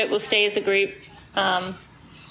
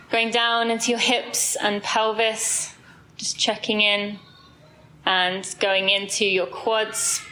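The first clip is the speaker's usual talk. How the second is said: slow, even meditation voice with long pauses; guided body scan. Real, not acted. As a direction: guide them calmly down the body, unhurried.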